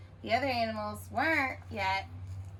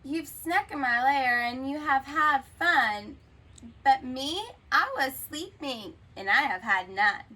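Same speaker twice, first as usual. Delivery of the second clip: louder complaining bear voice; upset bear; 3 semitones higher, 5 dB louder than usual. Acted. The bear complaining to party guests, louder whiny. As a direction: whine it like a cheated bear.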